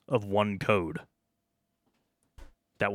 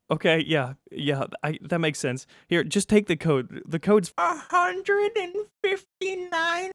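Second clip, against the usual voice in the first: higher, stammering nervous new guy; nervous guard; 12 semitones higher, 4 dB louder, slower than usual. Acted. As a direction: play a jittery first-day guard. Guard hands over code.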